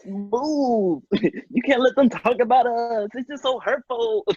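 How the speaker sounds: put-on high, hurt little girl. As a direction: play a wounded little girl. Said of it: "this little girl is like".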